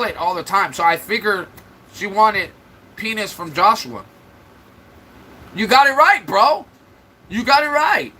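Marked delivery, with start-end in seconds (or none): 5.5-8.1 mock cheer. Mocking agreement to troll.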